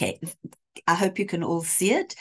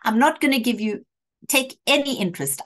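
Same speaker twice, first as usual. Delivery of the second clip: lightly acted plea to make peace; Shylock, placating; 2 semitones higher than usual. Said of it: "this is where Shylock says".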